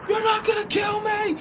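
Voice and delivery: high, loud imitation of a man yelling; acted defiant shout. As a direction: shout it out as the cornered guy. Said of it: "This is the one guy's like".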